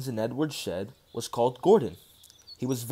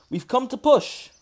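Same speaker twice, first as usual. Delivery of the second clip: higher, a bit louder announcement; brisk and helpful; driver's cheerful offer; 10 semitones higher, 4 dB louder than usual. A narrator's reading. Driver tells Gordon they'll help, lightly higher. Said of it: "he said".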